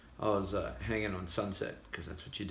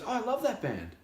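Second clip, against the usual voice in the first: higher, mock gushing delight; imitating eager fan; 14 semitones higher than usual. Guest imitates Phil gushing about his band, higher. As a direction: play the rock star gushing over the band. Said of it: "he goes".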